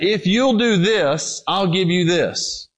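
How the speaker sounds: a slowed, drawn-out devil's bargain; slow tempter's offer. Retold or imitated. Preacher voicing the enemy's bargain to the listener, slow tempting offer. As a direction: dangle the offer slowly like a tempter. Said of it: "the enemy has come to you and said".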